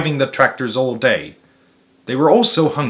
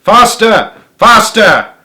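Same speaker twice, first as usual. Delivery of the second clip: higher, louder barked command; frantic shout; 8 semitones higher, 9 dB louder, slower than usual. A narrator's reading. Boggis shouts at the drivers, higher and louder. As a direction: drive the men on.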